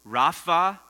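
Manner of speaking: "Raphael" slowly, split into Rapha, pause, El. Shown as a demonstration. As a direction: break "Raphael" apart so the listeners hear both parts. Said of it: "Let me say that name slowly".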